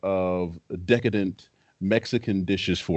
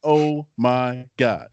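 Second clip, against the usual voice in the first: amazed retelling; 3 semitones higher, much slower than usual. Retold or imitated. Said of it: "my first three words were".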